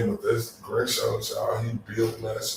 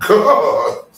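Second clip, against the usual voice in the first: drawn-out, much higher and louder gasp of disbelief; stunned oh my god; 10 semitones higher, 10 dB louder, much slower than usual. Retold or imitated. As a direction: stretch it out slowly in shock. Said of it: "I was like".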